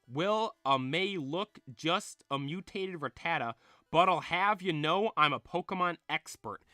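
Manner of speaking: lightly voiced folksy slang talker; slangy Bill. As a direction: explain it with a touch of country slang. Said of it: "he's talking with this slang".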